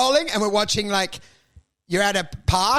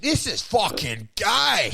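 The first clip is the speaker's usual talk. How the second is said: mock disgusted outburst; slower than usual. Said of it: "you think".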